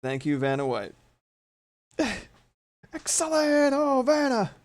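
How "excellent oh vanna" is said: very high, loud squeal; talking to a cat. Real, not acted. Cat showing itself on camera.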